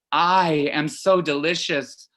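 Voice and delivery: slow, self-satisfied mock purr; smug Giorgio imitation. Imitating a lover's slow, savouring come-on to Mom. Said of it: "like he's saying".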